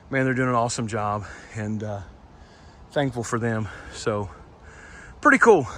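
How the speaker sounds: breathless while hiking uphill; out of breath, talking between breaths. Real, not acted. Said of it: "Sorry I'm out of breath".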